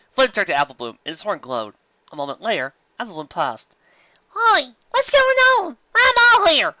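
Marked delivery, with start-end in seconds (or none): 4.3-6.7 put-on much higher, slow child voice; dazed filly. Apple Bloom wakes from the spell, high and dazed. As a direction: wake up confused.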